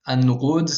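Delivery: an-nurud with the l turned into a doubled n; assimilated article. Shown as a demonstration. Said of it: "avec le N".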